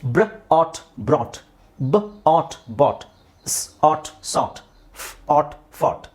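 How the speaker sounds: slow phonics: "ಬ್ರ", "ಆಟ್", then "ಬ್ರಾಟ್"; first sound alone, "ಆಟ್", then the whole word; sounded out, then blended. Shown as a demonstration. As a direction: split "ಬಾಟ್" as "ಬ", "ಆಟ್", then join. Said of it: "ಇದನ್ನ ನೋಡ್ಕೊಳ್ಳಿ".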